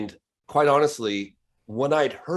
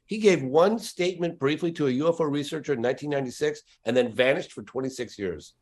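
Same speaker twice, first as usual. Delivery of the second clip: ordinary talk, nothing marked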